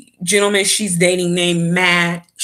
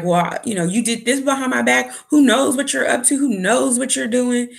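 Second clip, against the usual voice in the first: mild mock outburst, higher and fast; retold losing it; 5 semitones higher, faster than usual. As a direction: fire off accusations, imitating an upset boyfriend. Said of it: "He lost it. He was like".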